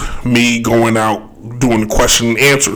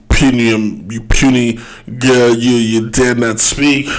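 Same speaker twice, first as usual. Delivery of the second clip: haughty, lightly put-on French accent. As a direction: scold like a snooty French official. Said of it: "can I get my French accents together?".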